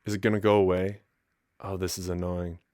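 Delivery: holding back a sneeze, hushed; talking through a sneeze coming on; about to sneeze. Real, not acted. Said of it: "I have to sneeze".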